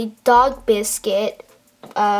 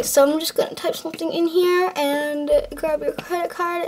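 ordinary talk

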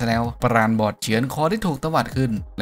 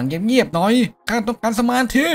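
annoyed hush; 10 semitones higher, 4 dB louder than usual. Acted. Hero annoyed by noisy kid.

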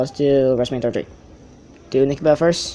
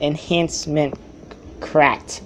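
slow careful repeat; 4 dB quieter, much slower than usual. Shown as a demonstration. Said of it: "I said, I said".

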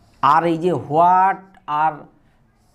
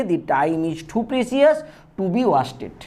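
each word spaced out for copying; slow dictation; much slower than usual. Shown as a demonstration. Teacher dictating an example sentence to students, slow and deliberate. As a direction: read it out slowly for students to write.

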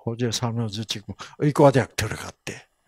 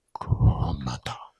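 slow, low whispered awe; awed whisper; 12 semitones lower, 6 dB quieter, much slower than usual. Shown as a demonstration. Pastor showing how people react to something marvelous, whispered slowly. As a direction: breathe the word out in wonder. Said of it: "뭐라 그래요?".

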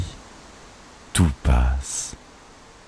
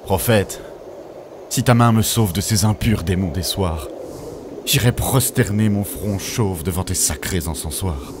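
raised-pitch dramatic supplication; fervent plea; 4 semitones higher than usual. Acted. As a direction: implore the Prophet to save you from demons. Desperate prayer to the Prophet. (supplication fervente et théâtrale)

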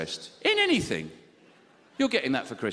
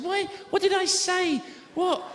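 baffled shout; slower than usual. Retold or imitated. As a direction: shout it in disbelief. Baffled outburst to wife.

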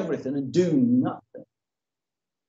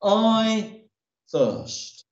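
faint dying voice; 4 semitones higher than usual. Acted. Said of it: "And Christ said".

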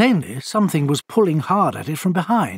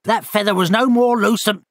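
mock-outraged bird scolding; the hurt owl rounding on the culprit; bitter owl; 5 semitones higher than usual. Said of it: "said the owl bitterly".

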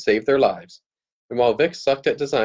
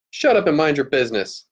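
snapped; 4 semitones higher than usual. Acted. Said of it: "Tara snapped at him".

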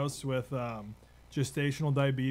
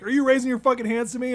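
much higher, louder mock bark at the recruit; drill sergeant yell; 10 semitones higher, 7 dB louder, faster than usual. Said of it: "He's like".

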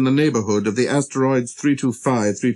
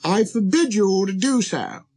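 raised-pitch royal command; forbidding monarch; 9 semitones higher than usual. Acted. King forbidding the prince to yawn, high and commanding. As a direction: forbid it with regal pomp. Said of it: "the monarch said to him".

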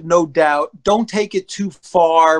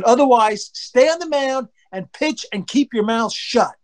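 higher, slow scolding command; retold stern order; 4 semitones higher than usual. Dad tells son on the mound, retold stern scolding. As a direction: spell out the order, mock-stern. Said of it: "But I screamed it".

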